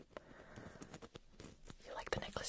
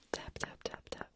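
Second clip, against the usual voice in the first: whispered tapping words; 8 dB quieter than usual. Shown as a demonstration. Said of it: "Make some".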